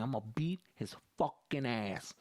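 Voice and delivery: slow, drawn-out "beat his fucking ass"; threatening mom. Retold or imitated. Mom's lips working through her threat, slowly stretching "fucking ass". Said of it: "She did that fucking thing".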